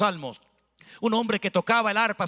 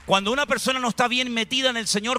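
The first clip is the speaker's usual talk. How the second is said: higher, insistent preaching; raised preaching pitch; 4 semitones higher than usual. Real, not acted. Preacher warns the church about offense, pitched higher. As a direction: climb in pitch as you press.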